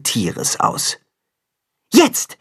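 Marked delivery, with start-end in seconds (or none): 1.9-2.4 signal call. A narrator's reading. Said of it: "gibt Timme das Zeichen".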